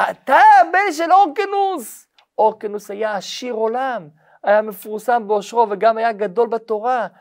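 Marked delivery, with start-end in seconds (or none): 0.1-2.1 much higher, louder, slow amazed question; stunned to hear the father's name; astonished. Acted. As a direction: rabbi amazed at the famous father. Rabbi learns whose son he is.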